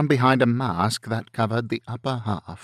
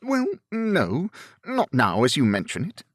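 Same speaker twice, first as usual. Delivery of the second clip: higher, lively gentleman giving way; Bingley, affable gentleman, conceding; 6 semitones higher than usual. A narrator's reading. Bingley concedes the point to Darcy, affable and higher. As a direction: concede in a lifted, quick voice.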